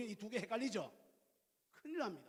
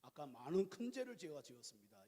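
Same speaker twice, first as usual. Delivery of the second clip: soft humble apology; 6 semitones lower, 6 dB quieter than usual. Retold or imitated. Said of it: "이렇게 하고 채워요".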